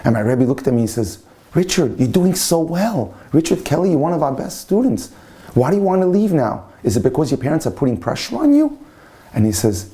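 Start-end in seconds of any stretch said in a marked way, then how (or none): 1.5-8.8 higher-pitched, lightly acted appeal to a student; concerned urging. Rabbi questions his departing best student, concerned and urging. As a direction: plead with a prized pupil, pitched up.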